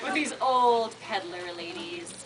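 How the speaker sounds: real laugh breaking into the words. Real, not acted. Narrator amused at her own joke, laughing through it.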